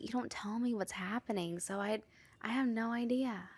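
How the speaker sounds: dropping to a hushed voice; soft, hushed admission; near whisper. Real, not acted. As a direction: let your voice sink as you confide. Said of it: "Why are you whispering?".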